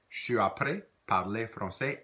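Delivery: Je suis après parler français repeated carefully; careful repeat of the phrase; model phrase. Shown as a demonstration. Teacher repeats model phrase for learners. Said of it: "Try that".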